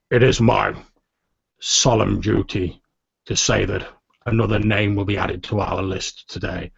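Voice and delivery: lightly acted formal eulogy; solemn commander. Commander addresses mourners at the memorial, solemn and formal.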